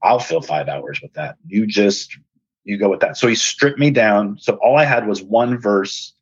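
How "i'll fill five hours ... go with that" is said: voicing the Lord. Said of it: "And the Lord said".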